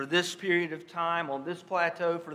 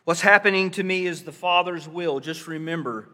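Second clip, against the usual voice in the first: gently reassuring Jesus. Acted. Jesus voiced reassuring Peter.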